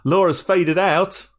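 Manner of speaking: slow, gasping disbelief; surprised gasp. Real, not acted. To friends hearing Laura dropped out, gasping surprise. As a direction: echo the news in shock.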